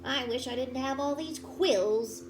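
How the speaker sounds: put-on a touch of a sad young porcupine; wistful Elmore. Elmore telling his uncle his troubles, wistful. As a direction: sigh it out like a lonely kid.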